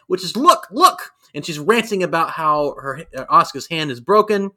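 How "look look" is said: mock anime excitement. Translating the anime quote.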